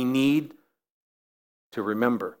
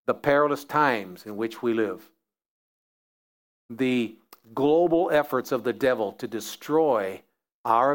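prayer. Acted. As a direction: pray it out, unhurried and earnest. Closing prayer.

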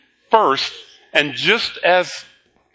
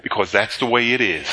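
lower, dry matter-of-fact; low deadpan echo; 5 semitones lower than usual. Retold or imitated. The pastor echoes Spock's answer to the congregation, low and dry. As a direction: say it like the logical answer, a touch lower.

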